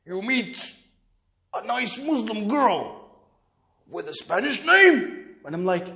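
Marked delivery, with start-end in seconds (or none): 0.1-3.1 lightly voiced slow, probing father; suspicious father. Father checking on son's new girlfriend, slow mock suspicion. 3.9-5.4 slow question swelling in disbelief; incredulous father. Retold or imitated. Father doubting his son's girlfriend is Muslim, drawn-out disbelief.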